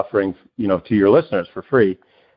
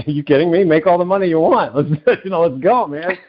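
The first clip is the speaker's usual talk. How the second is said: excited husband; 6 semitones higher than usual. Retold or imitated. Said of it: "He's like".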